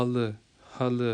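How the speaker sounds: حل as ha-lı, ending in a short uh; dotless-i ending. Shown as a demonstration. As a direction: say حل with no ee at the end. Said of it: "وہ نہیں ہوگی۔".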